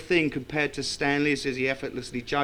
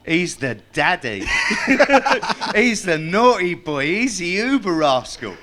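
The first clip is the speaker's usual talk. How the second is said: raised, excited voicing of Sal; gushing Sal; 5 semitones higher, 5 dB louder than usual. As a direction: gush about him like an awestruck fan. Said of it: "she said".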